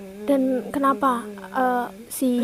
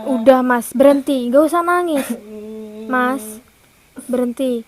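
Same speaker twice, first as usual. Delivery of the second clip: louder, pressing him to stop crying; firm urging; 4 dB louder than usual. Real, not acted. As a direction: raise your voice to make him stop. (desakan keras agar berhenti menangis)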